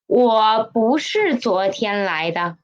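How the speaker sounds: whispered. Shown as a demonstration. Teacher whispers the example sentence for students. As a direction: whisper the line back to the class. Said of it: "teacher repeats the sentence whispered".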